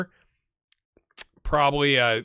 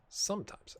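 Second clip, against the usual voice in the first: higher take; 4 semitones higher, 12 dB quieter than usual. Shown as a demonstration.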